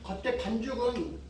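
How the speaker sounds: talking while crunching food; crunchy chewing. Real, not acted. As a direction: mouth full of crispy fry. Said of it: "소리 보십시오".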